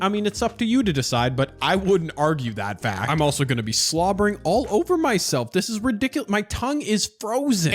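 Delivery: numb mouth, slightly slurred; talking through a numb mouth; numb from the dentist. Real, not acted. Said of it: "my entire face is frozen".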